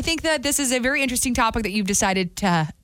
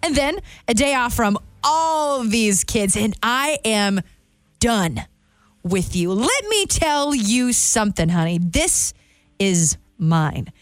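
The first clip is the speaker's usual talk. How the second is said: weary, emphatic monologue, trailing away at the end; dramatic script reading; much slower than usual. Acted. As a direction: stretch the key words and pause between phrases. Reads the quiz script in performance.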